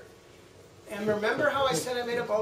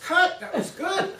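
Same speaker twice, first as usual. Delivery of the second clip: retold yell; 13 semitones higher, 6 dB louder, slower than usual. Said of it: "Nimoy yells".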